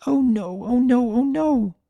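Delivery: high, frantic "oh no" over and over; a filly panicking, voice climbing; panicked repeating. A narrator's reading. Young filly panicking at her injured mother, high frantic. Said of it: "was just repeating".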